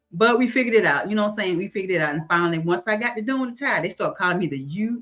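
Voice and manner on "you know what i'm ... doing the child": usual speaking voice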